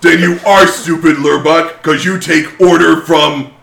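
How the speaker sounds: mimicking the orc. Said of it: "I'm gonna try to mimic the voice".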